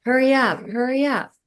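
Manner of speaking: high, insistent urging, retold; urgent calling. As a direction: imitate someone calling you to hurry into the water. Dream figure calling her into water.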